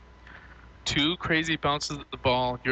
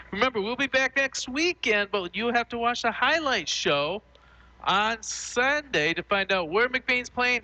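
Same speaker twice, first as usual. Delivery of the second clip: higher-pitched, punchy broadcast outro; radio sign-off; 6 semitones higher than usual. Acted. Host closing the post-game broadcast, announcer voice. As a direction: sell next week's show to listeners.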